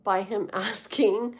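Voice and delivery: real laugh breaking in before the last word; amused, laughing partway through. Real, not acted. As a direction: let a chuckle interrupt the sentence. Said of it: "I'm laughing because I just know cancers".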